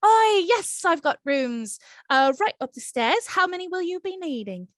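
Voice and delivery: lightly Irish barkeep, rising in surprise; a hint of an Irish lilt, startled and curious; Irish innkeeper caught off guard; Irish accent. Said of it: "sounding like Aisling Bea".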